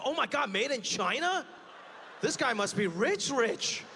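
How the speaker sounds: amazed gasping over a jacket, shouting at the end; mock amazement. Onlooker marvels at a made-in-China jacket, in awe. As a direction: gawk at the label in awe. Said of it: "it's like".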